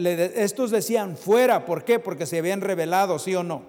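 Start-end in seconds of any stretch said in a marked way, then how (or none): 1.2-1.6 loud, sharp rejecting cry; crowd shouting. Retold or imitated. Preacher voicing the crowd crying out. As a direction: throw the word out like an angry mob.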